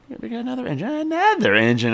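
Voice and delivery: mock excitement. Player finding yet another engine, high mock excitement.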